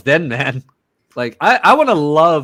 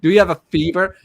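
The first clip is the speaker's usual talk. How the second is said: put-on faking sick kid; 6 semitones higher than usual. Kid faking illness to mom, mock sick whine. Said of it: "shit we'd pull to get out of school".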